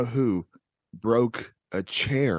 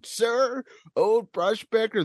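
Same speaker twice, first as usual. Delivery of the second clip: Miyamoto quote; 9 semitones higher, slower than usual. Retold or imitated. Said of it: "and he said".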